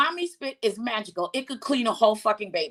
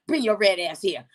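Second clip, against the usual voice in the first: lower, gruff scolding caretaker; scolding grandmother; 5 semitones lower, faster than usual. Retold or imitated. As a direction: scold the dirty kid, sassy. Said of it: "She was like".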